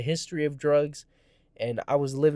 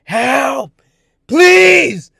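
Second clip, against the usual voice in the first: rising desperate cries for help; begging passing drivers for help, shouting; pleading shouts; 9 semitones higher, 13 dB louder, much slower than usual. Retold or imitated. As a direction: scream louder and higher with each plea. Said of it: "I'm like".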